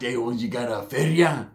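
lazy slurred homie asking for cash; Charlie Boy's voice. Retold or imitated. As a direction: slur it like the big bully from the hood. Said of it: "that's how he talked".

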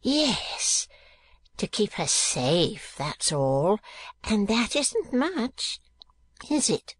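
high, halting character voice; anxious. A narrator's reading. Gride asks Ralph about keeping her safe, anxiously. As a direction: seek reassurance, high and drawn out. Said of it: "he added anxiously".

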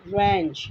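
रेंच begun straight on 'r', no W; silent W. Shown as a demonstration. Teacher showing the word wrench, silent W. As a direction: say रेंच as 'rench', W left silent. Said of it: "डब्ल्यू is silent".

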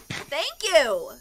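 normal talking voice

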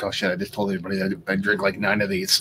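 low, quick mock confession; mocking Keith. Teasing his co-host in a low mock voice. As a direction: put on a dopey low voice for your buddy. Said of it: "Keith's like".

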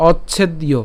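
"অচ্ছেদ্য" as och-chhed-iyo; "অচ্ছেদ্য" ending in an audible iyo; joined pronunciation demo. Shown as a demonstration. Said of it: "আমরা যদি একসাথে উচ্চারণ করি".

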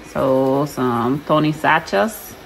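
slow Southern drawl on Tony Sachas; Southern accent. Real, not acted. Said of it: "y'all hear my accent".

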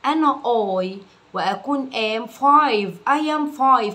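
slow word by word. Shown as a demonstration. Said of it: "كلمة كلمة يترجمها".

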